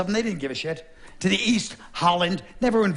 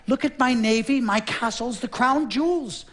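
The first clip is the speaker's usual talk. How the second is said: showing off; 6 semitones higher than usual. Acted. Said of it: "They tried to impress France".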